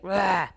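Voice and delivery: short mild mock growl; imitated grunt. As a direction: grunt like a frustrated toddler. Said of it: "he uses grunting".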